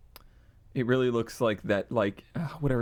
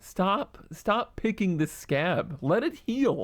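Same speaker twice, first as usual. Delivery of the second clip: higher, pleading exasperation; exasperated plea; 7 semitones higher, slower than usual. Real, not acted. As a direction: beg them to drop it. Begging friend to stop.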